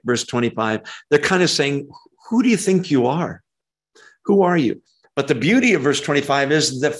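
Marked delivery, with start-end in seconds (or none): 2.3-4.8 higher-pitched sarcastic challenge. Acted. Crowd challenging who Jesus claims to be, sarcastic. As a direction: challenge him with mild scorn. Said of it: "this is sarcastic".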